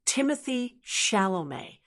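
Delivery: "Timothée Chalamet" modelled as "TIM-uh-thee SHAL-oh-may"; model pronunciation. Shown as a demonstration. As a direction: say "Timothée Chalamet" for learners to repeat. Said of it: "Try it with me".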